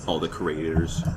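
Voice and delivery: mumbled through a mouth full; talking with a mouth full of food; mouth full of hot food. Real, not acted. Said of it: "Sorry, I'm eating hot chicken".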